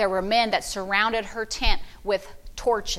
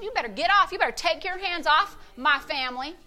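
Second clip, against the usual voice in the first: stern warning; 4 semitones higher, 3 dB quieter than usual. Retold or imitated. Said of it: "I get mad".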